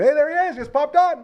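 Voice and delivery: high, bright hey there; excited greeting. Real, not acted. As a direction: greet him with a burst of excitement.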